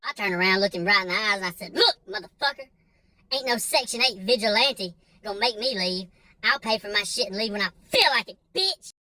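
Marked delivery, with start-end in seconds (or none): 1.7-8.9 tough-guy comeback. Pretend. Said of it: "Nah, I didn't say that".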